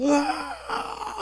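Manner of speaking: high, drawn-out imitated wail of a crying child; child's wail. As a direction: mimic the son's panicked crying. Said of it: "하면서 막 우는 거예요". (아이의 높고 길게 끄는 울음 흉내)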